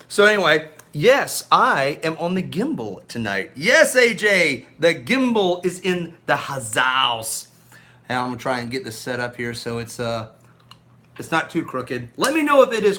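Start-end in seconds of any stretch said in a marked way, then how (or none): 3.5-7.5 mock MC announcement.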